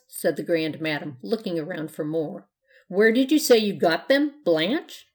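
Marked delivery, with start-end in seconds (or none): 2.9-5.1 put-on hearty old witch. A narrator's reading. Grand Madam asking.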